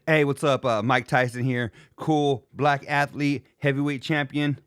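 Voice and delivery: mock a bland impressionist; a hint of a cheesy impression voice; imitating Rich Davis. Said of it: "this is Rich doing anybody".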